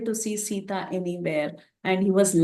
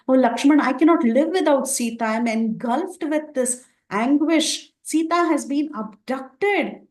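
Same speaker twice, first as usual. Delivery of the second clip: higher, louder grieving cry, slowing at the end; lamenting; 5 semitones higher, 4 dB louder than usual. Acted. Rama to Lakshman over Sita's loss, raised lament. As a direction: pour out anguish to a brother. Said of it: "he started lamenting".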